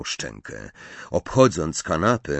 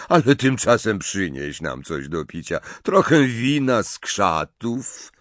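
sneering fake courtesy; mocking; 3 semitones higher, 5 dB louder than usual. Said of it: "uśmiechając się drwiąco".

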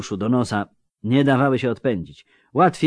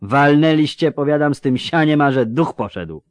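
loud, higher-pitched soldier's protest; scoffing Landsknecht; 5 semitones higher, 4 dB louder than usual. Acted. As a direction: argue it animatedly, pitched up. (żołnierz kpiący głośno, wyższym głosem)

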